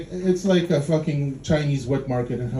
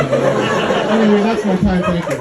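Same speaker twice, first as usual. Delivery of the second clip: set sign-off; 3 semitones higher, 6 dB louder than usual. Real, not acted. Comedian closing the set.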